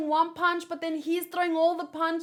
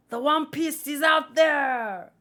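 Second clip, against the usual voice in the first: louder bold declaration; proclaiming; 5 dB louder than usual. Acted. Reader quoting Roger's famous call, bold proclamation. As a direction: announce it to the whole world.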